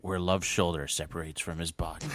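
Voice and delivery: lightly portentous film announcer parody; movie trailer voice. Pretend. Co-host spoofing Love's injury, light trailer voice. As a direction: intone it like a teaser line.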